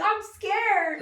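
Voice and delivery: hammed-up fake fright; mock scared. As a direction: sing out that you're scared. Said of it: "I'll be like".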